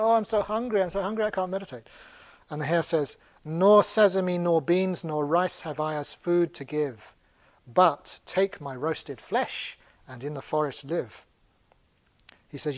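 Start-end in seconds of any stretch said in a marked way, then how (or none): 0.0-1.9 high lament, hurrying at the end; hammed-up starving wanderer; mock hungry moan. Wanderer repeats his hungry moan. 3.5-11.2 slow, deliberate poem reading; solemnly measured recital; verse recitation. Acted. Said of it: "they contain little poems".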